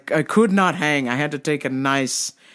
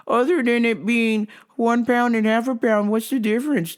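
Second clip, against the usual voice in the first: mock customer voice pitched higher; 5 semitones higher than usual. Store worker mimicking a fussy customer, higher voice.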